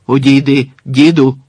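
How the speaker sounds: worried. Acted. The guard warns the old man off, worried. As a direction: back away and warn him, uneasy. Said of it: "стурбовано промовив".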